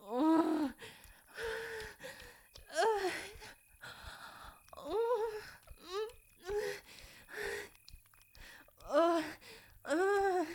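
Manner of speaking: high, pained grunting groans; strained groans. Acted. Repeated groans.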